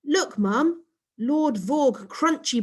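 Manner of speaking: put-on eager child pointing at the box; slow, drawn-out, thrilled kid; excited child. Child excited over cereal box.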